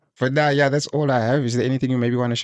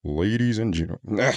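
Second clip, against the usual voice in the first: slow, low forced deep voice; too low voice; 2 semitones lower, slower than usual. Shown as a demonstration. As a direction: push it down too far. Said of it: "You're going too low".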